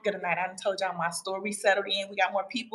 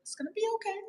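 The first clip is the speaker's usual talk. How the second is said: imitating the daughter; 10 semitones higher than usual. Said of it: "She was like".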